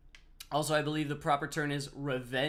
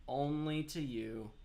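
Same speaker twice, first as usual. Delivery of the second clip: "Only to you" stretched slowly; slow pointed "Only to you"; slow, drawn-out; slower than usual. Shown as a demonstration. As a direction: draw out "Only to you" deliberately.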